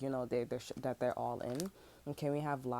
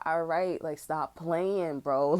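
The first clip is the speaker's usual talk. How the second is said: exasperated scold; 5 dB louder, much slower than usual. Retold or imitated. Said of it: "it's like".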